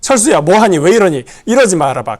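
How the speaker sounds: urgent call. Retold or imitated. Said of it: "이렇게 하지 않습니다".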